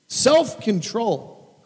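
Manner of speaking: usual speaking voice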